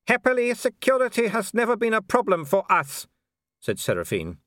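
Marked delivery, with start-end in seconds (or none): 0.1-3.1 high, polite baroness voice with a thin smile; a smiling aristocrat who means none of it; cool hostess smile. A narrator's reading. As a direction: welcome him coolly through a fixed smile.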